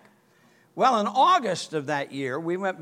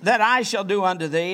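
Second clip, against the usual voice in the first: Jesus asking gently; 4 semitones higher, 5 dB louder than usual. Acted.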